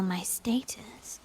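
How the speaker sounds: very soft, slow, breathy emphasis; quiet, drawn-out threat; hushed menace. Acted. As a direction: lean in and let it sink in. Menacing retort to the Order.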